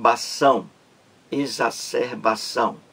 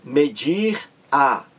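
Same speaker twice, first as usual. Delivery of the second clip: slow demo; much slower than usual. Shown as a demonstration. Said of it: "o pronome oblíquo átono a".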